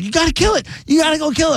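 high-pitched mock panic; imitated freaking out. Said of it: "like freaking".

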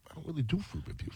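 very soft, quick inner aside; imitated thinking, barely voiced; retold private thought. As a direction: murmur it to yourself, fast. Retelling his private doubtful thought.

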